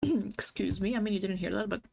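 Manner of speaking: hushed whisper to the audience; whispered aside. Real, not acted. Telling viewers they didn't hear that, whispering. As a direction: whisper it like a secret. Aside after snapping at someone.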